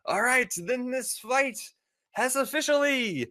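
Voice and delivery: high, projected fight-opening call; arena announcer. Acted. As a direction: proclaim it to the whole arena, building to the last word.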